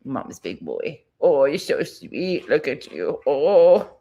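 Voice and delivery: slow tender cooing to her dog. Real, not acted. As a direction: melt over him slowly.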